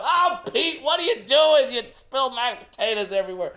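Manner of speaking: mom freaking out. Retold or imitated. Mom to dad at dinner, high and panicked. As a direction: shriek it like a startled mom. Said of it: "my mom's freaking out".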